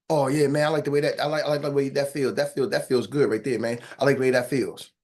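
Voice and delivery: low, relaxed client savoring the feeling; feelings-type client. Retold or imitated. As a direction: sink into it, man, low and easy. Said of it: "for the other person who's more kinesthetic".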